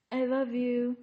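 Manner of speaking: blurting it out eagerly to join in; eager jump-in. Retold or imitated. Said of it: "here goes Danielle jumping in".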